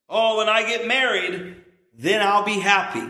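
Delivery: naive hopeful voice. Retold or imitated. Preacher mocks people expecting marriage to bring happiness, mock-dreamy. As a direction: play the starry-eyed single. Voicing naive engaged person.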